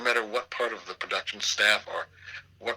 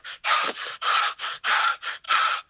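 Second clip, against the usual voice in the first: mock panting; 5 dB louder than usual. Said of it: "why are you so out of breath?".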